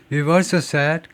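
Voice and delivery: We've also said at natural speed, v almost inaudible; natural clipped We've; quick contraction. Shown as a demonstration. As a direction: run We've also said together, no beat on ve. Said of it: "거의 안 들려요".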